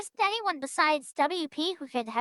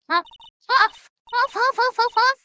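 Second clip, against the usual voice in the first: loud, high-pitched spoken huffs; huffing and puffing; 10 semitones higher, 10 dB louder than usual. Acted. Old lady arriving from chasing the boy, huffing and puffing. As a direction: huff loudly like an old lady out of breath. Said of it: "all the huffing and puffing".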